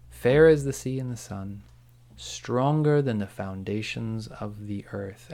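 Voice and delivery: slow, measured delivery of a grand quote; lightly voiced Sauron quote. Podcaster quoting Sauron tempting Galadriel, slow and measured. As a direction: draw out the line, lightly voicing a tempter. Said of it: "And he was like".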